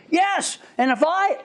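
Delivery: high, heated mock outburst; acted angry agreement; imitated angry inmate.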